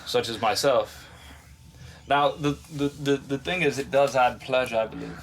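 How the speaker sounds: mock British gentleman's accent; hammed-up proper British voice. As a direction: put on a genteel English accent, unhurried. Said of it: "talk like people from U K".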